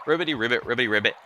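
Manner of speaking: frog priest proclaiming his mastery; a hint of a self-important frog sage; lightly voiced master frog. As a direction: teach frog language with lightly acted authority.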